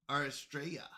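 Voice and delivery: Arstraya with no R roll, flat; failed rolled R. Shown as a demonstration. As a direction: try Arstraya and miss the rolled R. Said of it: "I can't roll my R's".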